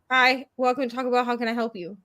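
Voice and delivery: imitating a bored drive-thru worker; mildly bored customer-service script; bored greeting. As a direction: rattle off a routine greeting without enthusiasm. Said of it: "they just sound bored".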